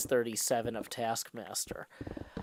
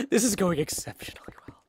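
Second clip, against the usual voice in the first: sarcastic; 5 semitones higher than usual. Real, not acted. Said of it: "sarcastic after breaking toenail".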